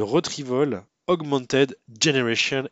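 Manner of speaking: slow, deliberate English accent; French speaker proudly attempting an English accent; showy English accent. Real, not acted. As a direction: pronounce it carefully with an English accent. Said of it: "on note mon magnifique accent anglais".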